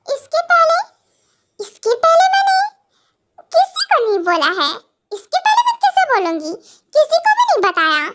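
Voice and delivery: high, giggly voice breaking up mid-sentence; giggling denial. Acted. Wife denying to her professor husband that she told anyone, giggling. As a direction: deny it through giggles, pitch leaping up. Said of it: "हंस रही है लड़की".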